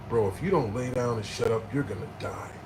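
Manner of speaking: low, hushed ending; retold grave warning. Paramedic warning a talkative patient, low and grave. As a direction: warn him gravely, voice dropping away.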